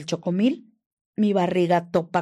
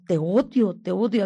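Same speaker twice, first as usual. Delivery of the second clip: imitated loud angry declaration; retold hateful outburst; 7 dB louder than usual. Abuser fed up after the broken glass, retold outburst. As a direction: quote his hatred with a raised voice.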